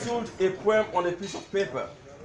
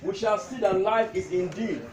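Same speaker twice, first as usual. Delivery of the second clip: measured recital, pausing between lines; comic tribute poem; 3 semitones higher than usual. Acted. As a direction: declaim witty verses to an amused crowd. Recites his poem to gathering.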